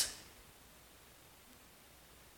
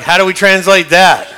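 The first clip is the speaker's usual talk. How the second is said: laughing; 7 dB louder than usual. Retold or imitated. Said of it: "the biblical translator's like".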